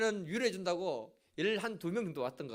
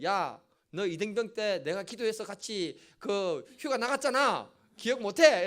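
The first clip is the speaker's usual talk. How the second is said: retold angry retort; slower than usual. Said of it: "제가 화가 나가지고 뭐라 했냐면은".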